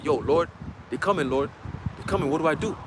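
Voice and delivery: low, softened appeal for help; quietly ask, as if in hiding; hushed plea. Acted. Frightened believer asking the Lord for help, hushed plea.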